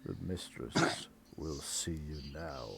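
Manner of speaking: very low, soft, long-suffering servant; deep weary murmur; weary butler. Acted. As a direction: sigh the words out like a put-upon butler. Butler announces mistress.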